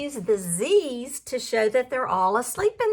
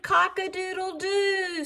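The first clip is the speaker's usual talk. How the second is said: higher rooster crow, lightly done; 4 semitones higher, 4 dB quieter than usual. Acted. Reading the flustered fowl, a mild mock crow. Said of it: "who crowed".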